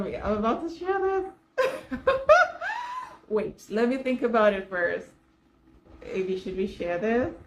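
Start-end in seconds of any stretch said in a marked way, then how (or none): 0.0-3.3 slow, higher, laughing through the words; nervous laughing confession; laughing nervously. Real, not acted. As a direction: giggle it out, embarrassed. Nervous laugh before embarrassing story.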